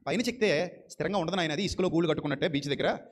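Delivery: lightly voiced Lord explaining to his child; gentle fatherly Lord. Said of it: "ప్రభు అంటున్నాడు". (కొంచెం తక్కువ స్వరంలో ప్రేమగల తండ్రిలా)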